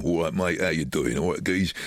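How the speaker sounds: casual, matey London accent; disguised as an everyday Londoner. Shown as a demonstration. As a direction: put on a chummy Londoner voice. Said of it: "try and talk like a Londoner".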